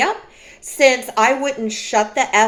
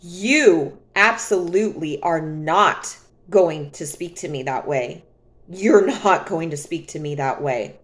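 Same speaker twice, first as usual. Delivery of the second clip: calm firm; 4 semitones lower than usual. Retold or imitated. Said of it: "and I'm not screaming".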